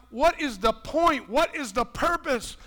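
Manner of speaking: mock frustrated shout; frustrated complaint. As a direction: vent a believer's frustration. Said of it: "we're like".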